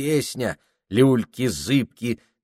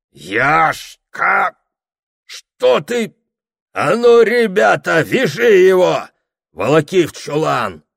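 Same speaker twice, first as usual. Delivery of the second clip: high, loud orders; rough shouts; 9 semitones higher, 7 dB louder, slower than usual. A narrator's reading. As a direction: yell to tie him up. Men overpower raging Yashka.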